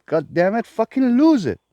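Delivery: ordinary talk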